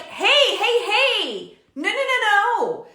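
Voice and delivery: mock parental yell to stop the teen; parent yelling back. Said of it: "To yell".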